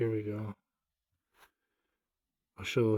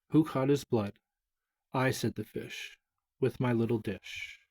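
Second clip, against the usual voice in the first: nursery rhyme reading. Acted. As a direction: recite it like a children's poem. Reads nursery rhyme aloud.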